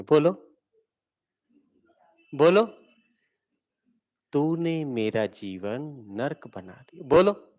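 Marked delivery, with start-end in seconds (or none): 4.3-7.0 slow, soft and tender; lovingly. Shown as a demonstration. Teacher speaks the accusation lovingly, slow and soft. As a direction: say the harsh words gently. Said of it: "अगर इसी को प्यार से बोला जाए तो कैसे बोलेंगे".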